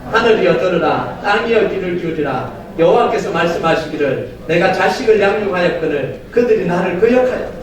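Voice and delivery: steady unison scripture reading; congregation reading aloud. Real, not acted. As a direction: read the verse together, measured. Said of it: "이 절 다 같이 한번 읽어봅시다".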